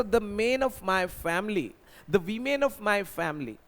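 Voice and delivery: slow model sentences; slow dictation. Shown as a demonstration. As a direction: spell them out for learners. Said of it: "इस तरह से sentence बनेगा". (धीरे उदाहरण वाक्य)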